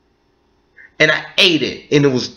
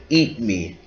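spooky whisper; 7 semitones lower, 6 dB quieter than usual. Retold or imitated. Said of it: "The Pringles say".

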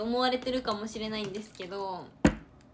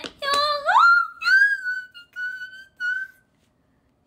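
high, loud yelp of a place name; homesick outcry; 14 dB louder, much slower than usual. Real, not acted. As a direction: cry out your longing for home, high and loud. Crying out in homesickness. (故郷を恋しがる甲高い叫び)

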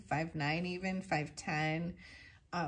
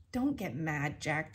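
soothing; 2 semitones lower than usual. Acted. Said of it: "the sentry answered, soothing".

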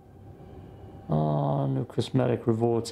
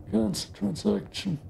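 higher stiff system announcement; mock announcer voice; 9 semitones higher than usual. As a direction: read it out like a robotic prompt. Repeating button text.

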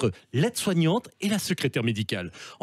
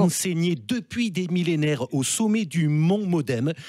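Bayrou impression. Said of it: "monsieur Bayrou".

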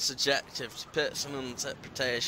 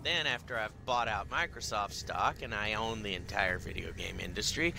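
evil villain voice; 7 semitones lower than usual. Pretend. Evil overlord plan speech.

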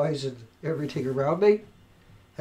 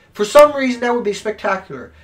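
louder repeat; 3 semitones higher, 6 dB louder than usual. Real, not acted. Building his rant at the media, now raised and loud. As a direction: hit it harder the second time.

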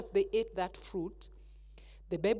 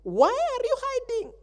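stern question; 14 semitones higher, 5 dB louder than usual. Acted. God questioning Adam.

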